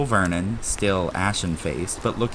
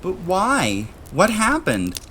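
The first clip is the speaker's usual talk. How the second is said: much higher, pleading; urgent; 11 semitones higher, slower than usual. A narrator's reading. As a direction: ask urgently. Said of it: "Harry asked urgently".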